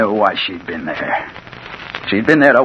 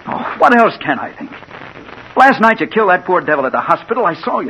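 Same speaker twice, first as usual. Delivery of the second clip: agitated; 9 semitones higher than usual. Acted. Confronting accused killer.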